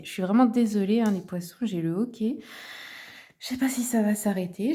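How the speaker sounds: apologizing between hiccups; hiccuping. Real, not acted. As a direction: hiccups breaking the speech.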